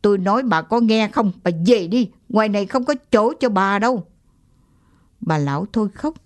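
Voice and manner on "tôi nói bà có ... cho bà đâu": insistent, rushing the last line; mild angry repeat to the old woman; angry, louder. Acted. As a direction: snap it out, fed up. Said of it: "cục giận trong ông lại trào lên".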